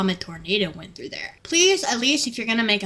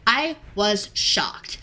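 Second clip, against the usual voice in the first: shocked; much slower than usual. Real, not acted. Reacting to the beef question.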